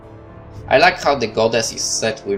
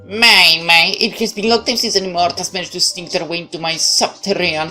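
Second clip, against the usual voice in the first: commanding warrior goddess; 8 semitones higher than usual. Acted. Goddess voiced in visual novel.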